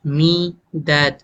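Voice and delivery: me light, that stressed. Shown as a demonstration. Teacher demonstrating the iambic beat, that stressed. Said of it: "me जो है वो stressed है".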